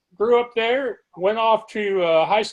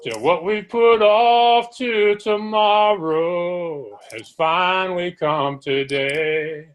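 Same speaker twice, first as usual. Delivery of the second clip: slow, measured poem reading over music; poem recital; much slower than usual. Acted. Host opens the show reciting a poem, slow and measured. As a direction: recite it slowly, weighing each line.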